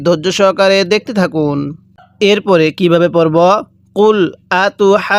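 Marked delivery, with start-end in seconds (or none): 3.9-5.2 "আতুহাজ্জুনানা" with the ha vowel held long, then joined to jeem; four-count madd. Shown as a demonstration. Teacher shows long madd, "আতুহাজ্জুনানা" held long. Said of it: "চার আলিফ টান দিয়ে দিব".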